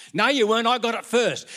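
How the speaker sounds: put-on high, loud child retort; high squeaky kid arguing; bickering kid. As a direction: snap back like a sibling. Grandkids squabbling voiced.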